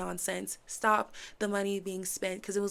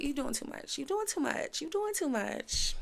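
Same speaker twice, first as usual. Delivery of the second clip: mocking repeat; 5 semitones higher than usual. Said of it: "And it was like".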